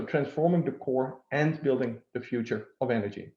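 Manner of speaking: emphasised "and" joining the two halves; stress on and. Real, not acted. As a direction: make "and" stand out mid-sentence. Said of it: "the emphasis on the word".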